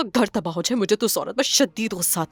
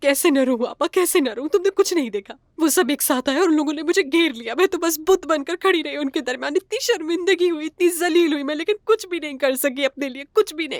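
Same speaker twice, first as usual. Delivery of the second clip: high, tearful speech, sobbing through the words; 6 semitones higher than usual. A woman talks to her older sister, crying while talking. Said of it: "रोना तो बंद करो फरीहा।".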